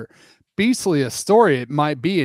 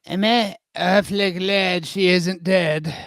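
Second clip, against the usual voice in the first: Toodles; 5 semitones higher than usual. Acted. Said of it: "said Toodles".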